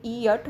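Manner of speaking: "ई यट" with both vowels sounded; two-syllable pronunciation. Shown as a demonstration. Teacher showing a hypothetical two-syllable word, "ई यट" said in two parts. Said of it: "दो syllable होते".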